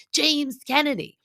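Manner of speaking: high, loud mock yell; Sandoval. Sandoval naming cast as he hammers, mock yell. Acts out Sandoval yelling at wall.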